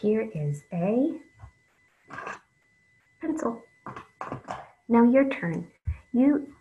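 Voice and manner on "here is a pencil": slow, deliberate example sentence; slow model sentence. Shown as a demonstration. Teacher modelling a sentence for young readers, slow and clear. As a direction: say it slowly so kids can copy. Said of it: "I'm gonna do it one more time".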